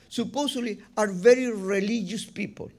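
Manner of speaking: religious leaned on a little, firmly; stress on religious. Shown as a demonstration. Preacher pointing out so-called religious leaders, stressing religious. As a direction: give the word religious a pointed weight. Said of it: "I'm going to emphasize the word religious".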